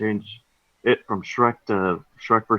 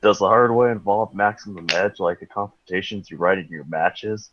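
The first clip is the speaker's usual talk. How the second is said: smart-ass tone; 2 semitones lower than usual. Acted. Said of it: "with a smart-ass tone".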